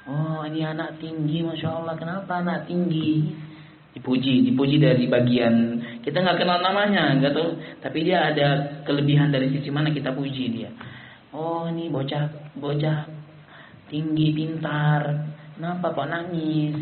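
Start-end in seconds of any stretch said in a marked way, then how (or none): 0.1-3.4 put-on soft, admiring coo to a child; gentle coaxing. Adult praising a crying child, softly coaxing. 11.4-16.7 put-on slow, soft coaxing of a child; gentle coaxing. Adult soothing an unknown crying child, slow and gentle.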